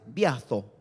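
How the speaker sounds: "Biazo" con la Z interdental, como th; pronunciación con Z. Shown as a demonstration. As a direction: di "Biazo" marcando la Z, lengua entre los dientes. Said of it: "con B larga y con Z". ("Biazo" con zeta castellana)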